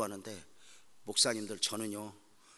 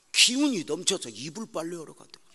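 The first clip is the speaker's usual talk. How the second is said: loud; 5 semitones higher, 7 dB louder than usual. Real, not acted. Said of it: "세 시간 막 울다가".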